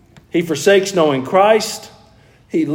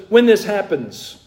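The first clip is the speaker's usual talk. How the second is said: "When" said higher and slowly, as a certainty; stress on when; 5 semitones higher than usual. Shown as a demonstration. Preacher showing Jesus' certainty, slow stress on "When". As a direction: land "When" firmly and slowly. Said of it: "No, he just says".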